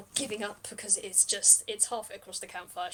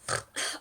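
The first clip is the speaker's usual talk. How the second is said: exasperated huff. Acted. Captive answers an obvious accusation.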